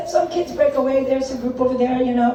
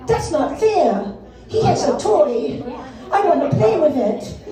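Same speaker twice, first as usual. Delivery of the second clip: slow, lightly voiced whiny girl; a hint of a pouting little girl. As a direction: plead like a small child. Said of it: "and says".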